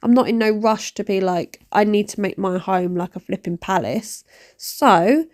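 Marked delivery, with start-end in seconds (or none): 1.7-4.2 mock exasperated, a bit softer; sarcastic sing-song about home makeovers. Mocking pushy commenters, lightly sarcastic and softer. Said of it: "I say it in that tone".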